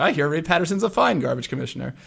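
a lightly done impression of a singer with a bad Irish lilt; terrible Irish accent. A singer praising Homer's rival commissioner, in a bad Irish accent. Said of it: "forgive my terrible Irish accent there".

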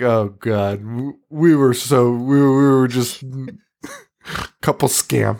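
lightly voiced laughing reminisce; a touch of nostalgic laughter; imitating a fond laugh. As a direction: chuckle through it like an old friend. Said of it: "And Brad's laugh is like".

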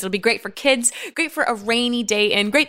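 lightly put-on perky presenter; cooking show host. Host reassures nervous producer and pitches easy noodles, mock-chirpy. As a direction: sell the recipe with lilting encouragement.

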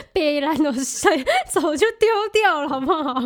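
high, loud scoffing retort. Real, not acted. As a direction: dismiss it as obvious nonsense. Scoffing at the idea. (不屑地高声反驳)

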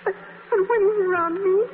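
wailing that he doesn't breathe at all; tearful. Acted. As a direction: let it catch and drag in tears. Tearful complaint about Bud.

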